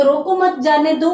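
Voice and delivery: रोको मत जाने दो run together; no pause after रोको. Shown as a demonstration. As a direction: join मत straight onto रोको, then जाने दो. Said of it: "बीच में कोई भी विराम चिन्ह नहीं है".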